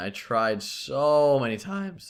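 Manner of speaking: voice cracking. In a casual two-person conversation, voice cracking mid-sentence. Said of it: "Ooh, voice crack".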